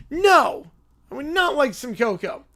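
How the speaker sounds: put-on high, loud, bratty little boy; whiny little kid. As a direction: demand it like a spoiled preschooler. Bratty kid refuses cocoa.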